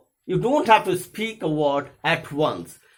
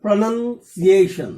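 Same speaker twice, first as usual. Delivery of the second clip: pronunciation said slowly and loudly, leaning on PRO and on the A of -ation; strong and weak syllables; 3 semitones higher, 6 dB louder, much slower than usual. Shown as a demonstration. Teacher introducing a four syllable word, pronunciation slow with strong stresses. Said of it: "it is a strong syllable".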